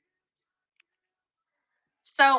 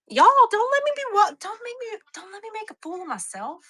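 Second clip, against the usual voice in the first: embarrassed plea; 10 semitones higher, 3 dB louder than usual. Real, not acted. Embarrassed, pleading with viewers.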